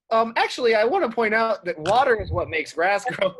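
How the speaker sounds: know-it-all correction. Acted. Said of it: "Raven pops back into visual and goes".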